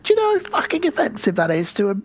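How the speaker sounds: high indignant yelp, then mock-offended rant; hammed-up drunk indignation, pitch leaping up; mock outrage. Drunk tourist offended at being called German, high mock outrage. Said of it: "and I said".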